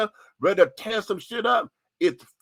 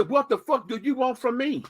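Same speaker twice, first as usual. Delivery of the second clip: retold exasperated plea; 5 semitones higher than usual. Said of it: "To sit there and say".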